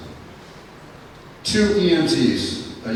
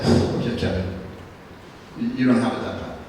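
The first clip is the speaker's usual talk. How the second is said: hushed, lower, softer words to himself; quiet self-talk; 4 semitones lower, 6 dB quieter than usual. Retold or imitated. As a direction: murmur it to yourself, half under breath. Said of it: "And I said".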